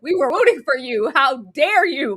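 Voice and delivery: mildly outraged scolding; indignant fan telling off a favorite; building mock outrage; retold yelling. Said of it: "I was yelling".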